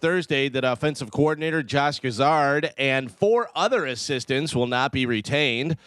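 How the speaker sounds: steady radio news read; sports desk reading the day's coaching changes. Acted. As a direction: deliver the headlines like a newscaster. Reads the sports news segment.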